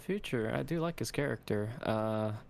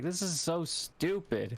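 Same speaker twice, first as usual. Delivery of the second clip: exasperated aside; 7 semitones higher, slower than usual. Retold or imitated. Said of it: "I'm like".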